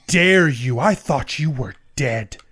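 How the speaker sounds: hurt, rising accusation; betrayed lover rising in outrage; angry. Acted. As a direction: scold him, building to a near shout. Lady of Knives confronts lost love.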